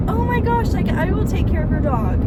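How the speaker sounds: high-pitched gushing 'oh my gosh'; gush, jumping in to help; eager offer. Retold or imitated. Retelling her eager offer to help.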